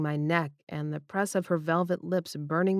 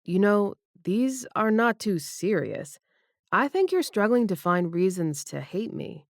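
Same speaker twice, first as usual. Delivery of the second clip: lightly raised female voice; Debbie's voice; 3 semitones higher than usual. Acted. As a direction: voice the woman, a bit higher. Debbie's retort in dialogue.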